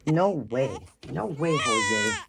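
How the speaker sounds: lightly voiced baby arguing back; indignant baby. Speaking for the baby to Mommy, mock indignant. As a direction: play a baby's mock outrage.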